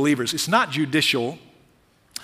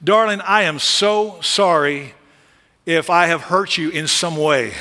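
mock apology. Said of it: "something like this".

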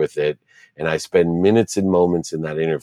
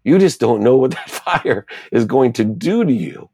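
lightly voiced mom, higher-pitched and reassuring; comforting mom; 7 semitones higher than usual. Mom hugging her punished-feeling son, reassuring. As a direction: reassure a crying child in a raised pitch. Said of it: "she hugged me immediately".

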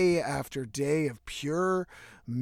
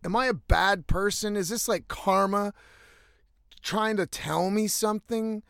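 retold desperate plea; 4 semitones higher than usual. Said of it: "I started saying".

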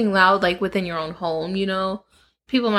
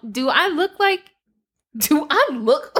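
higher, slowing into a laugh; laughing disbelief; 7 semitones higher than usual. Retold or imitated. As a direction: let the question dissolve into laughter. Retold retort, breaking into laughter.

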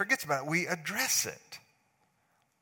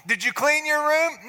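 loud, higher repeated demand; stern dad question; 12 semitones higher, 8 dB louder than usual. Retold or imitated. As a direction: cut through their excuses. Dad presses again.

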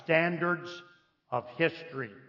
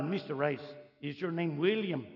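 put-on French accent; 6 dB quieter than usual. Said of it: "The guy had a French accent".

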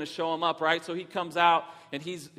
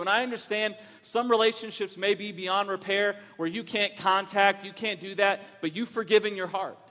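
raised, pressing preacher's voice; preaching; 3 semitones higher than usual. Acted. Pastor urging his church to forgive, preaching. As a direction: urge the congregation to make things right.

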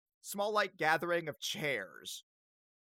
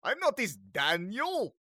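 indignant vampire; 6 semitones higher, 7 dB louder than usual. Acted. Vampire answers mistaken identity.

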